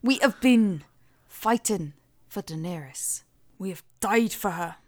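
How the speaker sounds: lightly voiced Scottish-ish accent, grave and earnest; a hint of a loyal old Scottish knight; Davos impression. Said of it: "That's my Davos impression".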